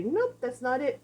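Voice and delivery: firm, matter-of-fact nope; firm correction. Shown as a demonstration. Trainer telling the dog off, a firm nope. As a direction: correct the dog plainly and firmly. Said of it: "you're able to say".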